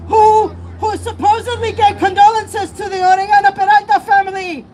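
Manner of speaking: a real catch of tears in the voice; voice choking up. Real, not acted. Activist at a rally for a killed family, choking up. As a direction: push through the words while close to crying.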